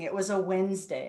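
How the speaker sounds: ordinary talk, nothing marked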